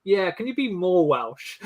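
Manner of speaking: drawn-out mock director's request; a hint of an imagined director giving a note; imagined James Cameron. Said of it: "You can just imagine James Cameron's like".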